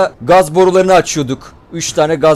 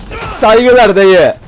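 very slow, louder stretched catchphrase; drawn-out salute; 5 semitones higher, 6 dB louder, much slower than usual. Real, not acted. Gamer saluting a dead zombie, very slow and drawn out. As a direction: drag every syllable out.

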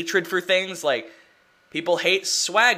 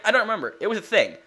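ordinary talk, nothing marked

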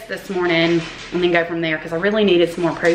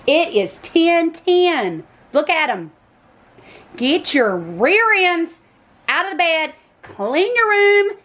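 calling out; 9 semitones higher, slower than usual. Real, not acted. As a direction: rouse them out of bed. Mom calling kids out of bed.

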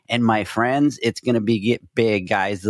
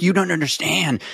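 mock whine; 6 semitones higher than usual.

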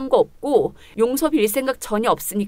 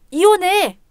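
higher, sharp final demand; angry demand; 6 semitones higher, slower than usual. Acted. Wife demanding divorce from her husband, sharp angry demand. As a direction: cut him off with it.

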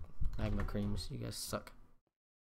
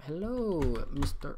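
calling out; 3 semitones higher, 6 dB louder, slower than usual. Pretend. Calls out to a mob.

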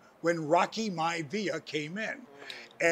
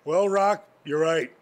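deadpan; 3 dB louder than usual. Retold or imitated. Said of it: "I just deadpanned him".

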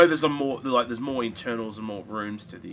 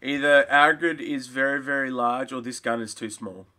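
sarcastic; 2 semitones higher, 6 dB louder than usual. Acted. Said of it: "I'm being sarcastic".

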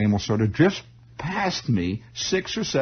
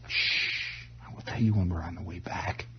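hushed; 4 semitones lower, 8 dB quieter than usual. Retold or imitated. Mother hushing him at funeral.

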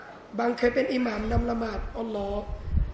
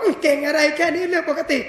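mock-modest shrug, a touch louder; husband playing it cool; 3 semitones higher, 5 dB louder than usual. Husband in front of kids, feigning modesty. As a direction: brush off the praise, secretly proud. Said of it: "สามีบอก".

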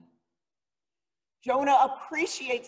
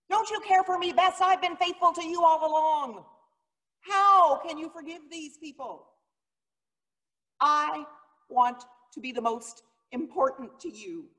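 higher, pleading and a little hurt; whining Jonah; 6 semitones higher than usual. Acted. Preacher voicing Jonah pleading with God, higher and whiny. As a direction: beg to be the favourite, like a jealous child.

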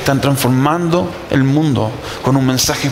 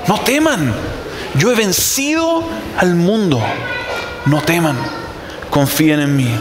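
raised, emphatic declaration with pauses between phrases; quoting Jesus; 2 semitones higher than usual. Acted. Preacher quotes Jesus telling followers not to fear, emphatic proclamation. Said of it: "Por eso Jesús dijo".

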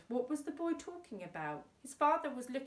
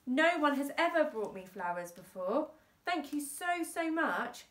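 emotional; 5 semitones higher, 4 dB louder than usual. Acted. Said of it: "She became quite emotional".

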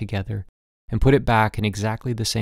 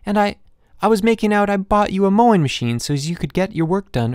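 put-on much higher and louder, desperate child; a boy frantic to convince his father; 8 semitones higher, 4 dB louder than usual. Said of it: "I said desperately".

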